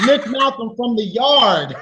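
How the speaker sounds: slow, laughing put-on Jamaican accent; half-laughing faked Jamaican accent; fake Jamaican accent. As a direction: savour it in a mock Jamaican accent. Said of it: "my Jamaican accent is false".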